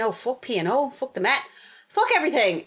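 fed-up outburst; incensed rage. Real, not acted. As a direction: let the exasperation rise. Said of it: "that was my incensed rage".

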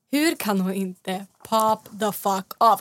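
drawn-out, very slow disbelieving question; exasperated disbelief. Retold or imitated. Viewer at home, frustrated with the calm housemate, very slow disbelief. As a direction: drag every word out in frustrated amazement. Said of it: "satt och bara".

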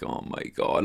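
breathless whispered panic, under his breath; panicked whisper. Retold or imitated. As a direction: whisper it like you're about to be caught out. Panicking alone before the interview.

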